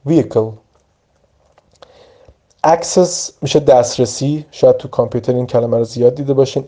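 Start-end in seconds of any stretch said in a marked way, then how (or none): 0.1-0.5 "ویهیکل" as a compact VEE-uh-kel; silent H demonstration. Shown as a demonstration. Teacher repeating the corrected word, pronouncing "ویهیکل" without its H. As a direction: say "ویهیکل" smoothly with no H. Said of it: "اچش تلفظ نمیشه".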